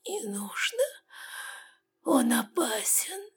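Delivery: soft, slow whispered plea; weak protest. A narrator's reading. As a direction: push back with no strength left. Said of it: "Начал сопротивляться тигр". (слабый шёпот-протест)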